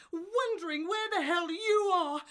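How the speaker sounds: fighting back tears; tearful anger. Acted. Wife accusing husband.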